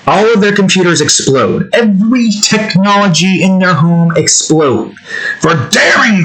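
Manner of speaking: hammed-up indignant threat; mildly pissed. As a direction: vow overblown revenge, half in earnest. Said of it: "young me would be pissed".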